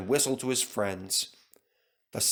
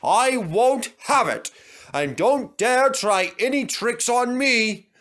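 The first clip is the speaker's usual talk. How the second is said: loud, high stern warning; firm; 10 semitones higher, 5 dB louder than usual. Acted. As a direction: lay down the law. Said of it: "said Skarloey firmly".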